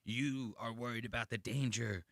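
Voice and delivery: lightly voiced intense monologue; Walter White. Retelling a TV monologue said into his wife's face, mild menace. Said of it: "he was doing the whole monologue where Walter White".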